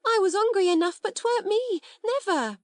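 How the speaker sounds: high, loud tearful denial; sobbing. A narrator's reading. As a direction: cry out your innocence, sobbing. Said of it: "said Becky, sobbing".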